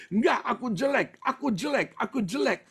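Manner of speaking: high-pitched, mock self-pitying refrain; imitated insistent protest. Acting the insecure boy's protest. (menirukan rengekan minder bernada tinggi)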